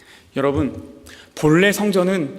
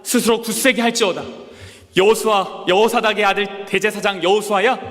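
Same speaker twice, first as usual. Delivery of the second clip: higher, slow biblical proclamation; solemn voice of God; 4 semitones higher than usual. Acted. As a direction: intone each command as God from on high. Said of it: "뭐라 그러셨냐면". (느리고 장엄하게 선포하는 하나님 목소리)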